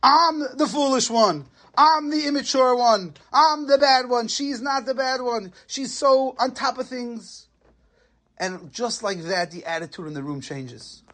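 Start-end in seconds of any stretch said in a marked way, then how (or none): 0.0-7.4 public confession speech. Retold or imitated. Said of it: "he makes a big, big speech".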